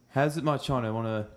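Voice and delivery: muddled South African, part British, part Australian; South African accent. Acted. Practising for the friend, wobbly South African accent. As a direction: attempt South African with a rising final "yeah". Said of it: "You sound like a mixture between a British person".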